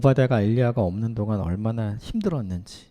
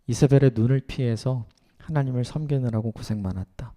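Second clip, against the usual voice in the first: tender praise; 2 semitones lower than usual. Acted. Words of praise Obadiah longed for.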